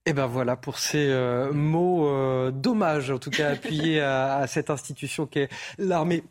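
choking while speaking. Real, not acted. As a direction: talk through a choking throat. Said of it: "je m'étouffe en même temps que je vous parle".

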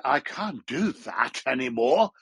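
slow, affected British accent; fake sophisticated British accent. Shown as a demonstration. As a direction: put on mock British sophistication, drawn out. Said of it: "sort of fake British sophistication".

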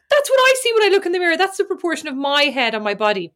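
hammed-up traumatized outburst. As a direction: retell it in mock-horrified realization. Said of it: "really traumatized by".

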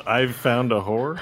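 incredulous quote. Retold or imitated. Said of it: "has anyone ever said the words".

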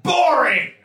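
high, loud teasing cry; ex-soldier ribbing his friends' hobby; mock dismissal. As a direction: toss the word off with a playful jeer. Mocking the seal hunting.

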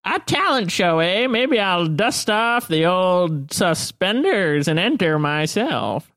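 a hint of a creaky old geezer teasing; crinkly old man. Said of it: "He'll come over and say".

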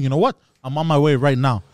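forceful threat, mildly yelled; retold phone yelling. Customer warning store he's coming, mild yelling. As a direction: announce it hard, like a retold phone row. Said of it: "So on the phone, I'm yelling".

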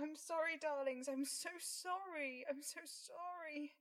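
soft, tender and quiet; tender apology. Acted. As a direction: gently soothe the cats. Soothing cats softly.

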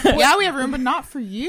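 high, loud mock snob; snooty. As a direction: lord it over them playfully. Mock snobbish gatekeeping.

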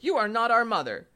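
put-on high-pitched kids' accusation; crying out. A narrator's reading. Kids to the wolf, high outcry. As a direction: cry out in a high kid voice. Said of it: "cried they".

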